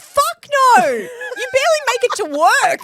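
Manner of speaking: shouted. Real, not acted. Friend refuses third child.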